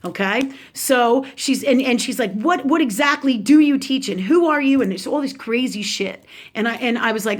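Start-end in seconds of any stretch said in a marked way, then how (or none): 2.3-4.8 mildly indignant retold questioning; imitating a nasty aunt. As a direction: challenge them, lightly acted. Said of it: "really nasty and unwell with it".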